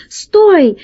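mild narrated shout; called-out shout. A narrator's reading. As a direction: call after someone running away, without full volume. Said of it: "закричал ему вслед весельчак У".

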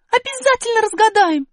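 высоко и громко, сердито; сердито отрежь. Acted. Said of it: "сердито отозвалась Аля". (сердитый высокий ответ Али)

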